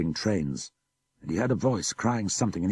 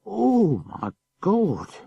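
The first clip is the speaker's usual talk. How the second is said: much higher, louder cry of horror; horrified cry; 13 semitones higher, 6 dB louder, much slower than usual. Acted. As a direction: cry out at the grisly sight. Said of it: "while the brother cried".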